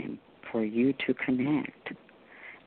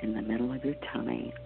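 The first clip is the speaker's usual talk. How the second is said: guided meditation. Acted. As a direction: guide them gently into calm.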